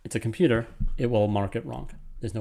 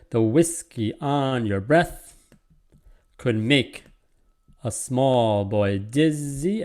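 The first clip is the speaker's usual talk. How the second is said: slow metrical reading, stretching "whiskey", "breath" and "dizzy"; measured scansion with drawn-out stresses on "small" and "dizzy"; scanned verse; much slower than usual. Shown as a demonstration. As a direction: read the line beat by beat, slowly. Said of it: "the stress is all correct".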